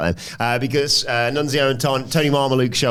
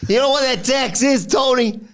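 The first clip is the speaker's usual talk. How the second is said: Nunzio impression; 10 semitones higher than usual. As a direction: lay down the challenge like a boss. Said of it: "Nunzio says".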